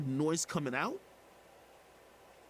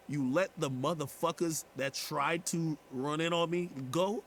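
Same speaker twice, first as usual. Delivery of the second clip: retold anger; 4 semitones higher than usual. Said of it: "So now I'm even more mad".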